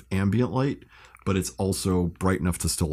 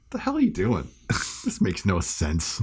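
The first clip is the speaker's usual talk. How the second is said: Pete Holmes impression. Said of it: "Pete Holmes has got my narration".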